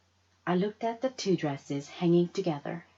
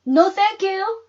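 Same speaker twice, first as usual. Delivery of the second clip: calm; 13 semitones higher, 9 dB louder than usual. Acted. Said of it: "said Mama calmly".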